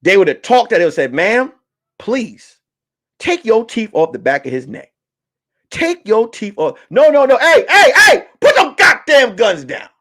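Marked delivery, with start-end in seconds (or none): 1.1-6.8 mock polite cop. Police gently coaxing biting woman. 6.9-9.9 mock cop warning. Cop stopping other officers.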